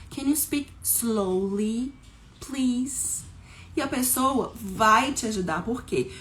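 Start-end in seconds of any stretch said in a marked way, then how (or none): 0.1-3.2 slow, drawn-out English with a lift on please; slow model phrase. Shown as a demonstration. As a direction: stretch slowly and please for learners.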